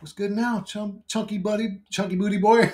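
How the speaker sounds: high, cocky taunting voice; mocking taunt. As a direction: needle him like a bully.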